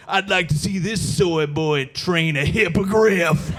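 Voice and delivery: slow, pompous shouted taunt; online tough guy. Retold or imitated. Anti-woke Twitter guy replying, slow mock shouted taunt. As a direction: sneer it like a flag-profile troll. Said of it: "that are just like".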